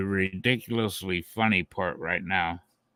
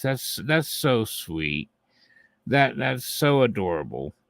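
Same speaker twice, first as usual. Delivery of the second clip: sarcastic little whisper; sarcastic cooing whisper about the rivals; mock cooing whisper. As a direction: whisper it as if it's cute, mocking. Mocking rivals hearting each other.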